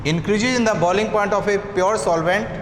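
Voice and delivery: slow, repeated phrases with long pauses; slow dictation. Shown as a demonstration. Teacher dictating elevation in boiling point, slow dictation. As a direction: dictate piece by piece so students can write. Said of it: "लिखिए".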